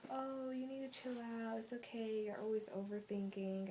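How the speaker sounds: lightly imitating a breezy, unbothered boyfriend; a hint of the boyfriend brushing it off casually; nonchalant boyfriend. Boyfriend telling her to chill, mildly nonchalant imitation. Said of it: "my boyfriend's so nonchalant about it".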